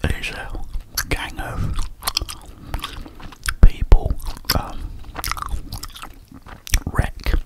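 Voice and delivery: whispering while chewing gum. Real, not acted. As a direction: talk around a mouthful of gum. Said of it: "I'm gonna bung a few of these in my gob".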